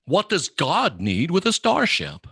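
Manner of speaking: a light imitation of Kirk, slow and pointed; quoting Kirk. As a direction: drag out each word like Captain Kirk. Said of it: "They're talking about Star Trek".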